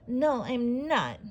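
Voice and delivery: slow, grumpy snap; snapping. Acted. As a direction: snap back crossly. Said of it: "the lady snapped".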